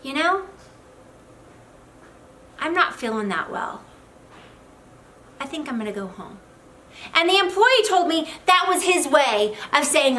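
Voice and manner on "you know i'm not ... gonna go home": halting, with long pauses, falling away softly; retold reluctant mumbled excuse, trailing quieter; boss's roundabout apology. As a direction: pause long between each reluctant phrase. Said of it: "he said to him".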